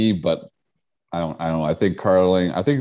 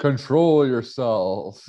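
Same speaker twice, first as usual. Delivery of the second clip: mock command voice; 4 semitones higher, much slower than usual. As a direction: bark it like a strange overlord. Mock-commanding, high and loud.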